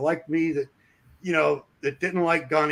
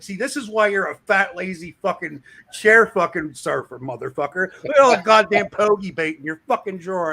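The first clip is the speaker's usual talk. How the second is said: mock insulting rant; 3 semitones higher, 5 dB louder than usual. Insulting boss over candy.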